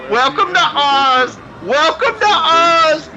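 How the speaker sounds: high, slow, drawn-out mock announcer call; muffled old man announcer. Masked old man calling out to the actors in a drawn-out mock announcer voice. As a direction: mimic the masked old man greeting wrestlers. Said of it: "you keep hearing him say".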